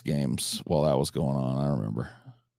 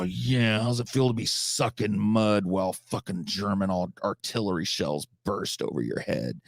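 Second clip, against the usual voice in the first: mock flippant question; 2 semitones higher than usual. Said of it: "going like".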